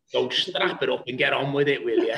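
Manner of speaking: mock-blunt manager, laughing through it; half-hearted impression of a no-nonsense gaffer; Kenny's voice. Manager Kenny dismisses injured player's complaint, laughing mock imitation. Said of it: "Like that, you know, as he does".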